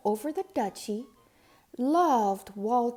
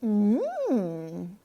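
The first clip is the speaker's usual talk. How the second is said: a pleased, tasting mmm; contented mmm of a duchess tasting jelly; savoring hum; 3 dB louder than usual. A narrator's reading. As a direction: let the Duchess savor the bite. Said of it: "said the Duchess".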